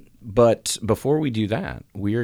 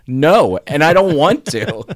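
flat refusal; 7 semitones higher, 7 dB louder, slower than usual. Retold or imitated. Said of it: "and I'm like".

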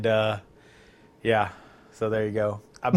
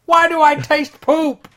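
high disgusted ape; 7 semitones higher, 7 dB louder than usual. Pretend.

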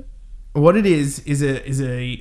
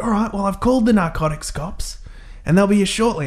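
mock cop; 6 semitones higher than usual. Retold cop announcing backup.

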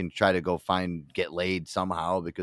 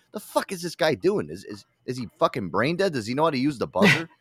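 mock yelling at TV; 5 semitones higher than usual. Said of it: "yelling at my T V".

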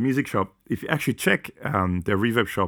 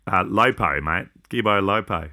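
mock Aussie bloke. Mocking Queensland slang.

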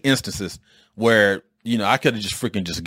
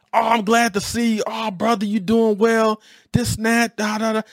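fake friendly; 11 semitones higher than usual. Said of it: "three dollar bill fake".

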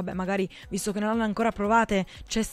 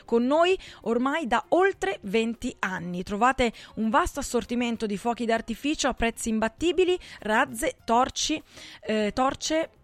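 upbeat radio commercial voice; ad read. Acted. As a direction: sell it like a radio spot. Radio ad for fireworks.

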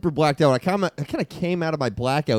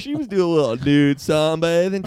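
a hint of a stoned beach bro, unhurried; surfer bro. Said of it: "Let's hear everybody's best surfer, bro".

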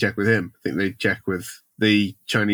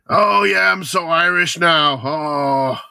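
exaggerated mock-Irish lilt, higher at the start; thick Irish accent; 7 semitones higher, 4 dB louder, slower than usual. Mocking Brosnan on talk shows, thick Irish accent. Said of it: "doing a really thick Irish accent".

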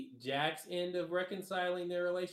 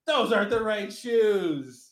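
slow, louder indignant line; 5 semitones higher, 12 dB louder, slower than usual. Retold or imitated. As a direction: stress the wrong shoes. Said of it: "he's like".

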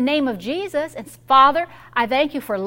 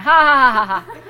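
imitated laughing; 5 dB louder than usual. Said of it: "and I'm like".

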